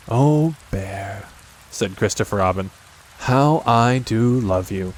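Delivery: put-on boy fondly telling his bear he loves him, slow; tender. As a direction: say it like a hug. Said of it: "boy tenderly tells Pooh he loves him".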